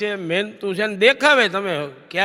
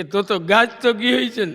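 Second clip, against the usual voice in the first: gentle remark. Retold or imitated. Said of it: "હળવેકથી બોલ્યો".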